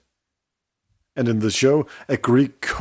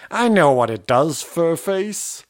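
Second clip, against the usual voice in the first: dismissive snap; 6 semitones higher than usual. Retold or imitated. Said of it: "shuts him down and says".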